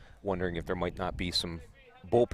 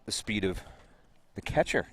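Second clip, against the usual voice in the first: incredulous; 2 semitones higher than usual. Real, not acted. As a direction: ask it like you can't believe it. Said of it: "You sound incredulous".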